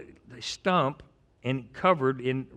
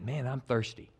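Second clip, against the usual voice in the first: offhand remark; 5 dB quieter than usual. Retold or imitated. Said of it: "David just made a comment".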